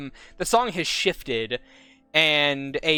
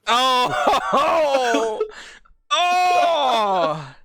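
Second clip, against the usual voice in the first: heartbroken cry; 10 semitones higher, 7 dB louder than usual. Real, not acted. GM heartbroken by player.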